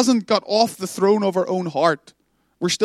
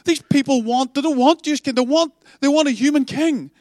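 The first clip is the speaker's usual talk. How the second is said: higher, anxious appeal; distraught plea; 5 semitones higher than usual. Acted. Samuel bringing his distress to God, anxious and higher. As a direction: plead with God, worried. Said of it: "Samuel's distraught".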